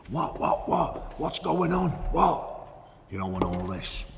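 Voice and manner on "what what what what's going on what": much higher, frantic repeated cries; panicked screaming. Retold or imitated. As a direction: squeal it like a terrified captive. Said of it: "He was screaming".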